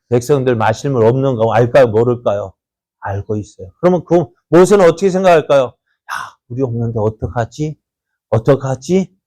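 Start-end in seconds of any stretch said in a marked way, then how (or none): 5.6-9.2 soft, quiet fretting; worried murmur. Retold or imitated. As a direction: fret to yourself under your breath. Moses worrying.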